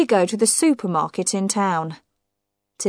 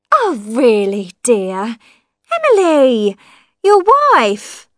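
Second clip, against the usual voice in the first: tinny talking telephone; 4 semitones higher, 5 dB louder, slower than usual. Acted. Wife's voice over the telephone.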